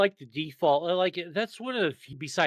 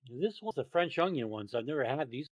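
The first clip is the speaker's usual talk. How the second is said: chewing while talking; mouth full; 6 dB quieter than usual. Real, not acted. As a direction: speak through a bite. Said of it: "talk with your mouth full".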